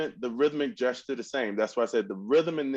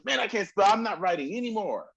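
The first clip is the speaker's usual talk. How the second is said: mock discouraged; 5 semitones higher than usual. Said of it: "you don't say to yourself".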